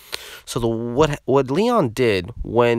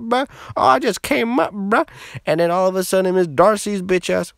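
mock a worked-up friend, voice climbing higher as it goes; hammed-up excited bro voice; imitating hyped friend; 5 semitones higher than usual. Retelling friend's excited account in his voice.

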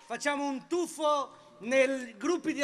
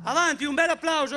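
calling out; 4 semitones higher, 5 dB louder than usual. Real, not acted. Rousing the crowd.

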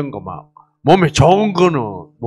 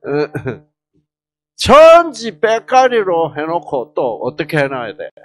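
normal talking voice

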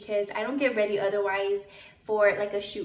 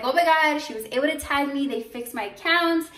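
mild mock scream; 4 semitones higher than usual. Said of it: "I was, like, screaming".

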